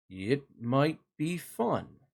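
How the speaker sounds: slow, lightly voiced turtle with a touch of snap; a hint of a grumpy turtle, slow; mild snap. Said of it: "snapped one of the turtles".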